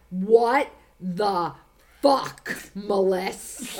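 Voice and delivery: slow, word-by-word disbelief; big-letters emphasis. Retold or imitated. Brother's texted reply to the photo, in emphatic big letters. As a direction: spell out the outrage with pauses between words. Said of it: "I see in big letters".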